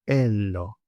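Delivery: "ello" drawn out, no opening consonant; word without TH. Shown as a demonstration. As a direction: sound out just the "ello" part slowly. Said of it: "and then".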